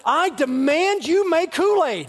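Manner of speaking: put-on high, slow, pompous kid command; five-year-old demanding his siblings obey; mock demand. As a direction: lay down the law like a tiny tyrant. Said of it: "I'd say".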